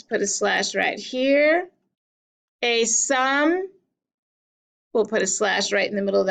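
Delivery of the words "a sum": "a sum" with SUM held long; split into iambs. Shown as a demonstration. Teacher dividing the sonnet line, drawn-out stress on "sum". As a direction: lean on "sum" in "a sum", cut off as one foot. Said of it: "Let's divide the first line into iambs".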